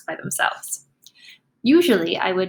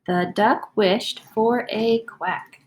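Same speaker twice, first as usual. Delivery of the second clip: modeled slow reading; much slower than usual. Shown as a demonstration. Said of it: "I'll read it first".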